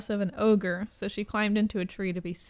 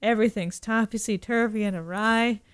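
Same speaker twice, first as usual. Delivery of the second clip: dopey cartoon bellow; 4 dB louder than usual. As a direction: boom it out like a dopey cartoon ogre. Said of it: "And the ogre says".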